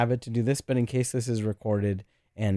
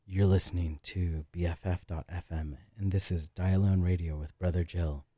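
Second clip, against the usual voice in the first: low creepy radio voice; Creep Boy voice; 3 semitones lower than usual. Shown as a demonstration. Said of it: "let me try one more time".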